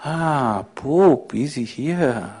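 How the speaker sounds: mischievous voice. Acted. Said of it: "A mischievous voice from inside said".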